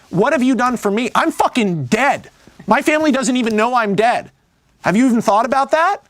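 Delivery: acted indignant confrontation. Ghost reproaches his living buddy for forgetting him, mock indignant. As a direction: confront a friend as the wronged ghost, lightly acted.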